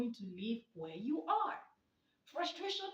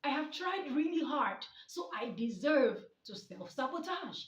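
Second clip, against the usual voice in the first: mocking replay; 4 semitones higher, 5 dB louder than usual. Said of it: "Hear how that sounded?".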